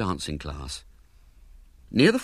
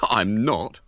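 indignant; 3 dB louder than usual. Acted. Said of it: "said William indignantly".

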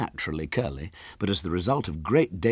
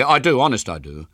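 loud, higher insistence; hasty; 6 semitones higher, 6 dB louder than usual. A narrator's reading. Cornered boy reassures the girl, hasty and loud. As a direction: insist at once, flustered. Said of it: "he said hastily".

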